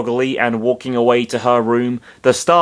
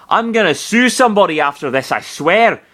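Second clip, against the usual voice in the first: exasperated; 6 semitones higher than usual. Acted. Character swearing angry.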